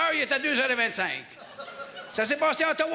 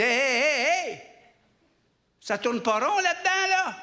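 mock indignant protest; 3 semitones higher than usual. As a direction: cut in like an outraged mayor. Mayor objects to the envoy's plan.

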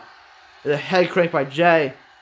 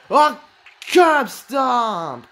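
excited shout; 4 semitones higher, much slower than usual. Real, not acted. Shouts the move name.

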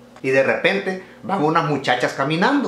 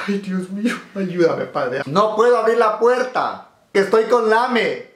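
frightened woman; 5 semitones higher, slower than usual. Acted. Frightened woman behind door.

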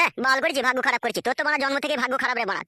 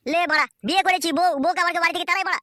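exasperated outburst; 4 semitones higher than usual. Acted. Husband exasperated at wife's demand.

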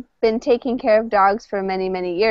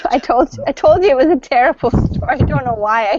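laughing; 3 semitones higher, faster than usual. Real, not acted. Laughs at her own sad story.

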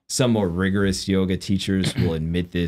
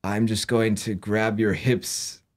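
lightly put-on therapy voice, slightly lilting; mock a soothing yoga-class therapist; weird yoga voice; 3 semitones higher than usual. Shown as a demonstration. Yoga teacher excusing awkward touching to a student, mock therapy voice. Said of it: "a very kind of therapy voice".

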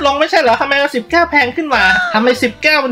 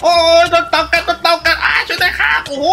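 mock panic; 4 semitones higher than usual. Bitten by a turtle in game.

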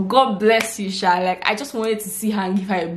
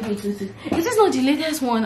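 half-laughing, higher, imitating an amazed guard; laughing disbelief; 6 semitones higher than usual. Security man asking her about the latest phone, laughing in disbelief. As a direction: laugh through the question in disbelief.

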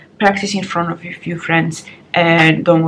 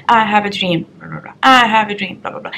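Martin Luther King. Retold or imitated. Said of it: "the wave pattern that Martin Luther King used".

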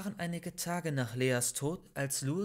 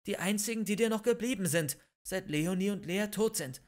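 pleading; 5 semitones higher, 3 dB louder than usual. Acted. Christian pleads with Louis.

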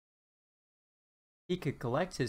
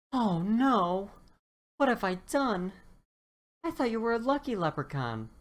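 high, loud panicked cry; horrified dino; 9 semitones higher, 5 dB louder than usual. Acted. Dinosaur sees friend turned to gold, high loud panic. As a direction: horror at what he's done.

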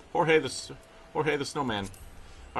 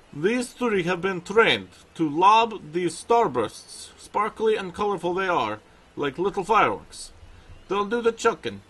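put-on light Russian accent, pitched higher; 4 semitones higher, 3 dB louder than usual. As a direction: voice the bear trainer with a Russian accent. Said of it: "I'm gonna give him a Russian accent".

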